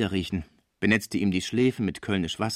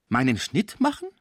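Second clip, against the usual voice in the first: affronted, rising higher on the query; indignant question; 4 semitones higher, 3 dB louder than usual. Acted. Cibot answers talk of her making a cut, indignant. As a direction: throw it back as an offended question.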